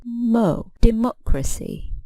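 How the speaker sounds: mo alone, then Democracy with its second syllable stressed; stress on MOC. Shown as a demonstration. Teacher isolating the stressed syllable, mo, then Democracy stressed there. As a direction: lift MOC in Democracy, then let it fall. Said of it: "we stress the antepenultimate syllable".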